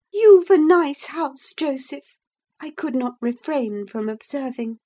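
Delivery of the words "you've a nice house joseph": louder, slow dry sarcasm; mock praise through exasperation; sarcastic gentleman. Visitor sarcastically praising Joseph's house.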